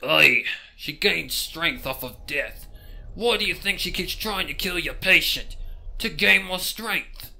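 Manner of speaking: pony warns the detective, slow and ominous; grave pony. Acted. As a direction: lay out the grim truth slowly.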